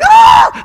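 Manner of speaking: very high imitated shriek; mock pained scream. Girlfriend hit in the face, imitated high scream. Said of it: "She's like".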